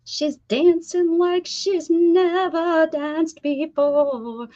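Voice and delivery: high, slow teasing commentary; mock announcer; playful hype. Real, not acted. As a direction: tease her like a sportscaster. Joking about player pulling.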